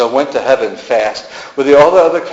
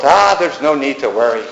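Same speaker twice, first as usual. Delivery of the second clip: a light Irish lilt, gently reassuring, rising higher by the Latin; charming Irish lilt; 3 semitones higher than usual. Acted. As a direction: soothe him in a lilting Irish accent. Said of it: "with her charming Irish lilt".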